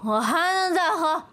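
put-on slow drunk insisting on being sober; trying to sound sober. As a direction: drag the words like a drunk insisting they're fine. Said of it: "我没醉".

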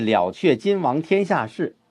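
slow, weighty reading; emphasis demo. Shown as a demonstration. Teacher stressing the key line to students. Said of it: "因为重点是".

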